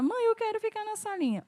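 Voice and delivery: put-on little girl. Daughter voiced pleading to mother.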